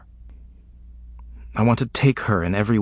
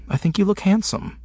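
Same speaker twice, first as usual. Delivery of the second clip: much higher voiced woman, gently teasing; Brooke's voice; 11 semitones higher than usual. A narrator's reading. Narrator voicing Brooke complimenting James, higher pitched. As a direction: lift up into Brooke's register.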